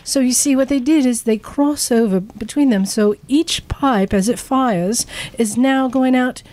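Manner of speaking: lightly put-on posh British explainer; imitating a British woman's accent. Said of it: "so she was posh British".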